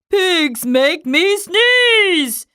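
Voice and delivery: slow, emphatic cry of alarm; dramatic exclamation. Acted. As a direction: declare it like a tragedy. Same line repeated as exclamation.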